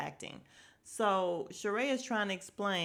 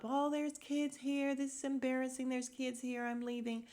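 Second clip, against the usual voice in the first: imitating flustered lady; 4 semitones higher, 3 dB quieter than usual. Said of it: "the lady jumps up".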